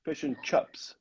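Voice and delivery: put-on "chips" said as "chups" in a Kiwi accent; lightly imitated New Zealand accent. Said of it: "person from New Zealand, and that they say".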